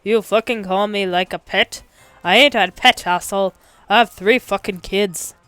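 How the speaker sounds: put-on loud, offended Boston-accented rant. A narrator's reading. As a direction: protest angrily, raising your voice. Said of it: "in addition to his voice".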